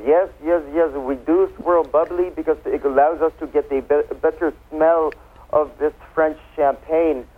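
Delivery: imitation French champagne-maker's accent; terrible French accent. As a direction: quote him in a hammed-up French accent. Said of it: "with my terrible French accent".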